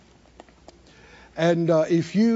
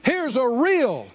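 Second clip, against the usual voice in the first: raised, insistent preacher's delivery; emphatic preaching; 4 semitones higher than usual. Acted. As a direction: preach it with drive, pitched up. Preaches at high pitch.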